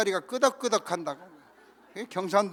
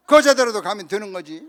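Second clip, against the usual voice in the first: louder, blunt impatient insistence; mock angry retort; 2 semitones higher, 12 dB louder than usual. Hot-tempered teammate settling the destination, loud mock anger. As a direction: slam the decision down, fed up. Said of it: "성질을 막 확 내면서".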